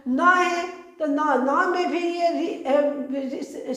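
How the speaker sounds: न and रि- spelled out slowly and haltingly; slow spelling demo. Shown as a demonstration. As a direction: sound the parts out one at a time. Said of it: "तो ये मु हो गया".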